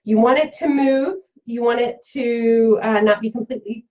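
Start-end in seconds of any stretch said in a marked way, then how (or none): 1.5-3.9 talking through hiccups. Real, not acted. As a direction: hiccup between the words. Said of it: "excuse me, I've got the hiccups".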